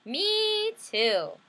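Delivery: high eager little sister. Acted. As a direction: squeal it like an eager small sister. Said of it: "my little sister said".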